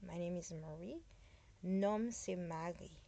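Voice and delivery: normal talking voice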